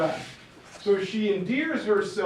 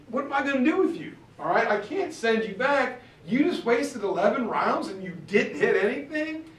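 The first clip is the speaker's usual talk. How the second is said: higher-pitched captain at his wits' end; exasperated scolding; 5 semitones higher than usual. Acted. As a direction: act out a fed-up telling-off. Captain scolds the failed hunter.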